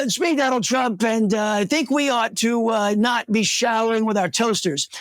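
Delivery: a quick half-hearted Trump bit; mock Donald Trump voice, barely put on; Trump impression. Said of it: "the best Donald Trump impersonation".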